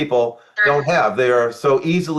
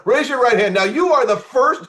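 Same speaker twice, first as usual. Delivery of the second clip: high, pompous swearing-in voice; sarcastic mock oath; mock officiant; 10 semitones higher than usual. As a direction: play a solemn official, mocking it.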